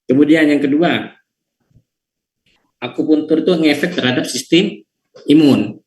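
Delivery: choppy connection cutting out; broken-up audio over a bad line; voice breaking up. Real, not acted. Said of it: "Suaranya putus-putus".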